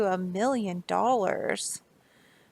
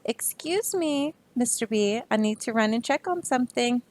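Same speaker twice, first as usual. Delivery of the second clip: polite otter excuse; 3 semitones higher than usual. Acted. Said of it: "the otter says".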